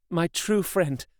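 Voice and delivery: a hint of a resolute young woman; Mina's voice. A narrator's reading. Mina answers through tears.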